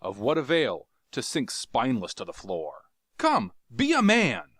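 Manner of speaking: high, brisk rallying speech; urgent encouragement. Acted. Carthoris rallying Jav to flee. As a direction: push him to act now.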